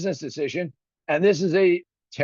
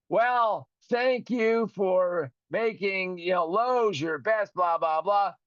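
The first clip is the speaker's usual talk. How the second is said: mock syrupy tagline; 3 semitones higher, much slower than usual. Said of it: "Gotta say it in a syrupy, silky way".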